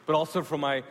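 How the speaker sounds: emphatic preaching. Real, not acted.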